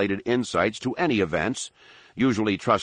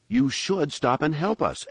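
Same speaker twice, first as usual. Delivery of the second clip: "should" weighted heavily; stress on should; 8 semitones higher than usual. A narrator's reading. Anakin urging locals to stop and help, heavy stress on should. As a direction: lean hard on "should". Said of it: "weighting the word "should" heavily".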